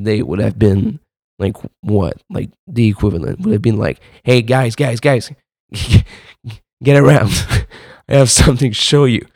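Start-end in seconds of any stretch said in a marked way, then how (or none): 4.2-9.2 mock show-off friend. Imitating old-days food-photo show-off.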